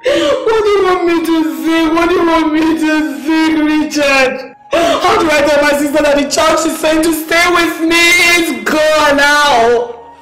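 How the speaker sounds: anguished, tearful questioning; distraught wailing. Acted. Asking Richard how to tell the sister, distraught. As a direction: lament it helplessly through tears.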